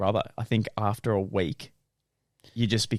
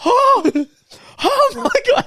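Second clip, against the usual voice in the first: mock sobbing cry, much higher and louder; imitating a sob; 9 dB louder than usual. Contestant hearing her ex died, imitated crying wail. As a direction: wail it like the news just hit.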